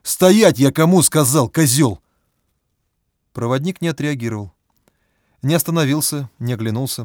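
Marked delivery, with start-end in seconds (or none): 0.0-2.0 loud furious yelling; furious shout. A narrator's reading. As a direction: roar it at the guide. Same man keeps shouting.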